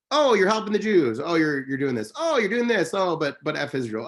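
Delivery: high, exaggerated complaining voice; a pestering string of mock objections; mocking critics. Mimics critics' objections to his advocacy.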